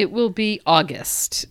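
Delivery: soft aside whisper. Real, not acted. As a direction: whisper it as a joke. Joking aside about editing.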